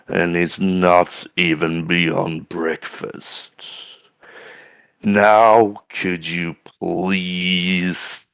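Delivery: weary rasp, slow and halting; raw, tired character voice with a slow threat; raspy, raw voice. Acted. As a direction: rasp it out slowly, with long breaks between phrases. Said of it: "you hear in a very raspy, raw voice".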